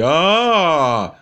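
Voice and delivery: long drawn-out "ah", imitating the opponent; mock someone stalling with a stretched "aah"; imitated hesitant, held "ahh"; mimicked stalling "ah". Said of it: "now watch him say".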